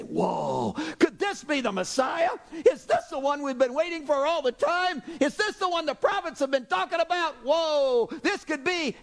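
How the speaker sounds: high, excited gasp of wonder; amazed crowd. Retold or imitated. Crowd stunned by the miracles, high and excited. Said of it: "they begin to look at each other and say".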